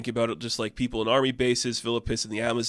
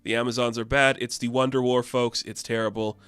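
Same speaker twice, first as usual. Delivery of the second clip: news anchor. Retold or imitated. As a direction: announce it to the folks at home.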